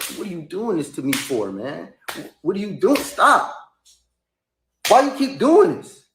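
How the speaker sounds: hurt plea rising to a high, loud cry; acting out crying with hurt feelings; building from wounded question to wailing protest; tearful pleading. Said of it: "I'm crying".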